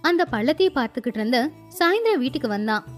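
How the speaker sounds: usual speaking voice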